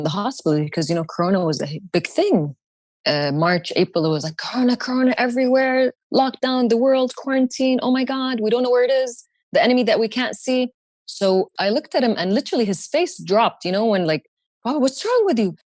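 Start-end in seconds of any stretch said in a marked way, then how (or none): 4.4-10.7 panicked crowd. Retold or imitated. Mocking the panicked public mood. 14.6-15.5 worried ask. Retold or imitated. Asking shocked dad.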